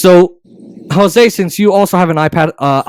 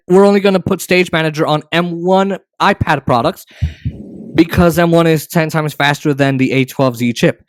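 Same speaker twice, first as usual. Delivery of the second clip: dry mocking corporate voice; sarcastic. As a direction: say it with heavy sarcasm. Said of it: "I'm just saying that sarcastically".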